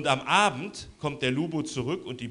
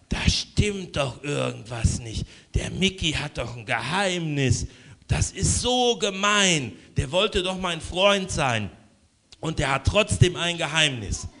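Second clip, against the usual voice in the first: to himself. Acted. Lubo alone in the room, grumbling hurt to himself. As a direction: brood over the secret, aggrieved. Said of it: "so zu sich selber".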